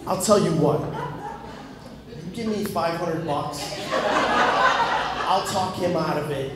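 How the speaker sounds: lightly voiced wheeler-dealer, laughing through the offer; sly salesman leaning in, slowing down for the deal; shady hustler pitch. To the guy at the door, selling heaven seats, sly hustler voice. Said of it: "be like".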